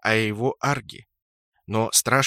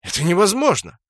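higher, louder furious shout; 7 semitones higher, 7 dB louder than usual. A narrator's reading. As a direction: yell it in proud outrage. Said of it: "закричал Брутто".

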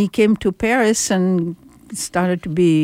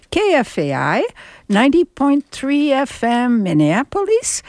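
station announcement. Acted. Host announces the station before nine, formal radio ident. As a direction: announce the station, stretching the final words.

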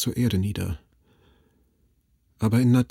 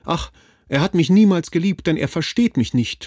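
higher, louder tearful lament; heartbroken, tearful wail; loud sobbing; 7 semitones higher, 5 dB louder than usual. A narrator's reading. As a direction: cry out through sobs. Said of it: "schluchzte sie laut".

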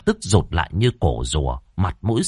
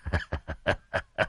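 sly chuckle; 4 semitones lower, 11 dB quieter than usual. A narrator's reading. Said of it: "cười cười cầu tài".

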